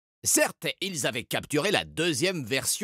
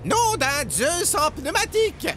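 magician's oath; 4 dB louder than usual. A narrator's reading. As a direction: declare the oath grandly. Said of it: "finit-il par déclarer".

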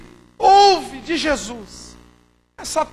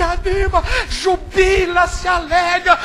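loud, slow fiery sermon build; preaching at full force; 4 semitones higher, 11 dB louder, slower than usual. Acted. Pastor to his flock, fired-up preaching shout. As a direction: preach it like the master is calling.

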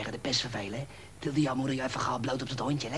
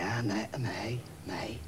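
whisper; 2 semitones lower, 6 dB quieter, much slower than usual. Acted. Fan whispers back conspiratorially.

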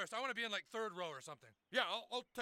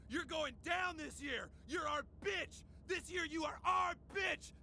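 gloating taunt. Acted. Trash-talks rival over the phone.

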